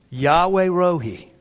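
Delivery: slow, firm declaration; with conviction. Shown as a demonstration. Preacher leading the church to repeat, with conviction. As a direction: draw it out firmly for others to echo. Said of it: "Say it with conviction".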